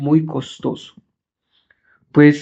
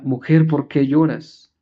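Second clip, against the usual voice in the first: first gentle asking; slower than usual. Retold or imitated. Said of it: "La primera".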